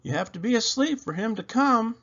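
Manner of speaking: high, gentle mother; mother's voice. A narrator's reading. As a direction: explain kindly as Mama. Mama answering child.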